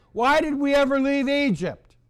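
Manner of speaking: lightly voiced grumbling Israelites. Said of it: "And they're wondering".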